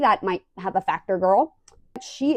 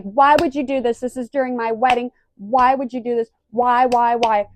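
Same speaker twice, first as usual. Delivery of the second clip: raised, pleading protest in retelling; mock outraged demand; 3 semitones higher, 5 dB louder than usual. Vlogger voicing Scheana upset about her wedding, mock outrage. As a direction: act out an exasperated friend demanding answers.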